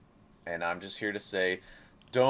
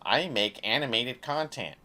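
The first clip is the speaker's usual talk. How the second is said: mock creator; 2 semitones higher than usual. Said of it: "marginalizing yourself".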